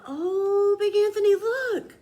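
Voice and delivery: high, loud alarmed nun; alarmed sister. A narrator's reading. Nun warning Big Anthony about the pot, high alarmed. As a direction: cry out in alarm. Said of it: "a sister from the covenant said".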